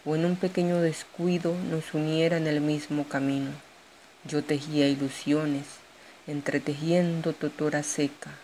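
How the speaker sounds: measured poetry reading with pauses between verses; poem recital. Acted. Poet shares her own poem with an audience, poem recital.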